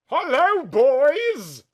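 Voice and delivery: high, loud eerie alien greeting; crooked alien voice. Acted. Sammy greets the two men in a high, loud alien voice. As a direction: greet them like a creepy creature. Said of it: "whispered in a crooked alien voice".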